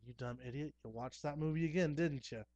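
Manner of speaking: mild mock scolding from a wife; half-hearted yell, rising on the accusation; retold wife's yelling. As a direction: lightly imitate an annoyed wife telling you off. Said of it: "she yells at me".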